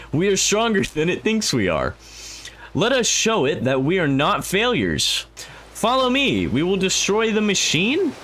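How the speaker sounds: high-pitched mock British rallying cry; rally them in a high British voice; British accent. Player rallies followers to destroy the machine, mock British accent. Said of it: "Just don't ask why I'm British".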